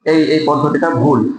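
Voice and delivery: soft and respectful. Shown as a demonstration. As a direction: correct him tenderly, voice kept low. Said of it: "কণ্ঠস্বর নিচু করে আস্তে আস্তে বলতে হবে". (বাবাকে নিচু, নরম, সম্মানের সুরে বোঝানো)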